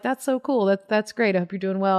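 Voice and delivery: a hint of Tig's kind dry voice; lightly voiced Tig, pleased; imitating Tig. Tig answers the comic's story, lightly imitated. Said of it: "You sound like Tig when you do the".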